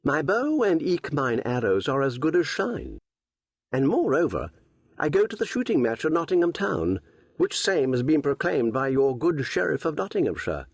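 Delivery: put-on bristling young archer, stung by the taunt; angry young Robin. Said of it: "Then Robin grew angry".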